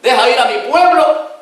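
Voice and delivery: hammed-up herald addressing Pharaoh; Aaron announcing to Pharaoh, grandly; Aaron speaking for Moses. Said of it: "decía Aarón".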